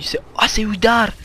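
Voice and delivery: startled high call, drawn out; sudden alarmed recognition; surprised. Real, not acted. Spotting an enemy mid-fight.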